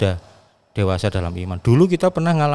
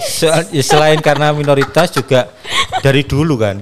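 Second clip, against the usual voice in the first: stifled giggles; 3 semitones higher, 5 dB louder than usual. Real, not acted. Giggling over minority joke.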